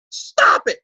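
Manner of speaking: breathy, toneless whisper of a command; a flat whispered order to quit it; deadpan whispered stop. Retold or imitated. Therapist whispering his blunt order to the patient. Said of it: "looks right in the eye and goes".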